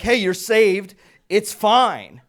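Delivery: high, loud shout of reassurance; big coach-like rescue call; football voice. Retold or imitated. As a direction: holler it with total confidence. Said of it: "I use my football voice".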